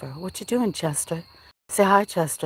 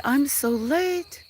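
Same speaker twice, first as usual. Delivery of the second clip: voicing the cat; 8 semitones higher, much slower than usual.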